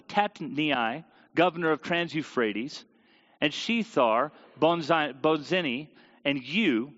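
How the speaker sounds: steady formal reading of a royal decree; measured public reading; scripture reading. Acted. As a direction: read it out like a proclamation. Reads the decree aloud.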